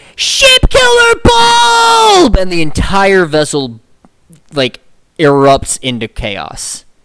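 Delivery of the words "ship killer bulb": very high, shrill, loud, drawn-out scream. Voicing First Mate Dewey as he looks up: screaming as First Mate Dewey. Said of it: "and he just screams".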